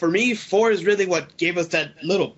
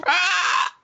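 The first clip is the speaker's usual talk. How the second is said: high shrill shriek; pterodactyl shriek; 10 semitones higher than usual. Shown as a demonstration. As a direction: screech like a pterodactyl. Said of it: "Sound like a pterodactyl".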